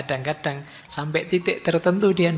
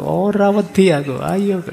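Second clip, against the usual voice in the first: higher, louder mock yell in Javanese; scared santri shouting at the bathroom door; defiant shout; 5 semitones higher, 5 dB louder than usual. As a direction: bark a dare at the door to mask the fear. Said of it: "sambil teriak keras-keras itu".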